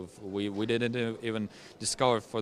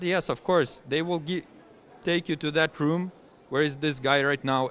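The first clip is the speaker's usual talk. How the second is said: pitched well up, a bit louder, mock agreement; sarcastic retort; 6 semitones higher, 4 dB louder than usual. To a naive cellmate in the prison, a retold sarcastic retort pitched high.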